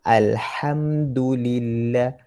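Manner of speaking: "Alhamdulillah" with breathy throat ha; ha pedas. Shown as a demonstration. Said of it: "Alham pedas". (sebutan ha pedas dari tengah kerongkong)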